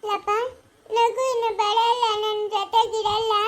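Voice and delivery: weeping and hopeless; crying. Acted. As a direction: wail the words to an elder. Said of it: "ನೀನು ಹಿಂಗೆ ಅಳ್ಕೂಡ್ದು".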